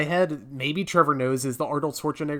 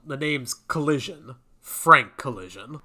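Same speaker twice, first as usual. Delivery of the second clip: mock spy introduction with a dramatic pause; slow, hammed-up delivery of the surname; James Bond. Host introduces a knockoff spy by name, mock James Bond. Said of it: "Or just a knockoff James Bond".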